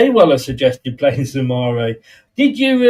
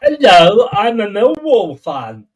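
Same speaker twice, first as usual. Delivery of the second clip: a hammed-up Millwall fan's accent, higher and loud on the hello; mock Millwall accent; 5 semitones higher, 6 dB louder, slower than usual. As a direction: put on a South London Millwall accent for a laugh. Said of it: "give us your best Millwall accent".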